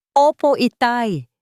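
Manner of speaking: put-on high, slow, eager child voice; a bright little kid answering his father; lively child's answer. A narrator's reading. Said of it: "masiglang sagot ng bata". (masiglang sagot ng bata)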